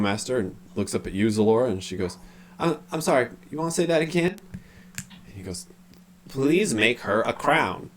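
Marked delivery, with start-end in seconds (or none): 2.6-4.4 baffled character voice. Acted. 6.3-7.9 slow, higher entranced request; dazed, drawn-out delivery; weird unconscious voice. Acted. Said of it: "unconscious quality to his voice".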